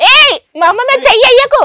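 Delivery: real shout to stop the blow; angry shout. Real, not acted. Daughter shouting at her father to stop, real angry yell. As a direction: yell at him to keep his hands off.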